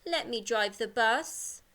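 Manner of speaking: slow, glum and mopey; a bit sad. Shown as a demonstration. Teacher shows pupils a sad way to say it. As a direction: say it as if you know the answer is no. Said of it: "maybe you're a bit sad".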